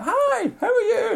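high, slow, bright mock Kiwi welcome; friendly Kiwi greeting. Hosts imitate a welcoming Kiwi fan, high and slow. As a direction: sing it out like a beaming local. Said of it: "and they're like".

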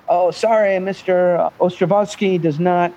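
mock Russian interpreter accent. Interpreter asking for the cloud explained, mock Russian accent. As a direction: put on a Russian accent, a little stilted. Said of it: "the interpreter will say".

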